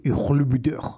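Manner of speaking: "Ich liebe dich" with hawking, throaty ch endings; phlegmy German pronunciation. Shown as a demonstration. Mocking an ugly love phrase, "Ich liebe dich" hawked from the throat. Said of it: "σου έχει κολλήσει κάτι στο λαιμό".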